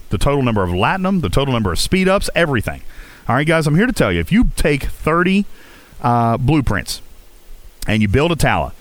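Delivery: normal talking voice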